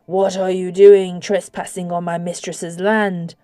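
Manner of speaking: slow, low growl of a lake creature; slow, menacing mudlik voice; deep gravel voice. Acted. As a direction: drag the words out like something from deep water. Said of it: "spoke to her in a deep gravel voice".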